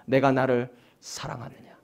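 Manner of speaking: a soft, low, loving call; warm voice. Acted. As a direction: ask 내가 나를 사랑하느냐 gently, as Jesus comforting Peter. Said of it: "따뜻한 음성을 들려주십니다".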